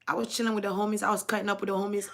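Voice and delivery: fast, casual homie talk, lightly put on; imitating his talk. Medium voicing the late rapper, quick casual homie chatter. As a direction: rattle it off quick like you're kicking it with the homies. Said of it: "I don't know why I wanna talk like that".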